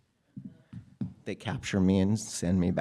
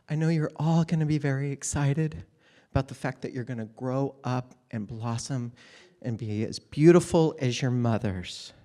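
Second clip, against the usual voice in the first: lovely teacher voice; 3 semitones higher than usual. Retold or imitated. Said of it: "very lovely voice".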